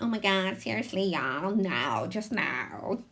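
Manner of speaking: lightly voiced whiny teen; a hint of an exasperated teenager whine. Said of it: "like, a teenager, uh, whiny voice".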